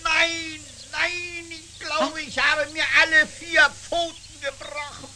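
hoch, klagend, vor Schmerz jammernd; Schmerzensschrei nach Sturz. Acted. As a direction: jaulen wie nach einem bösen Sturz. Fuchs stürzt auf Glatteis. (Fuchs nach dem Sturz, hoch und jammernd)

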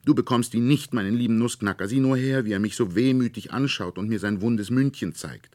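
put-on high, loud pleading girl; tearful plea. A narrator's reading. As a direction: beg to keep the toy through tears. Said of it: "rief Marie weinend".

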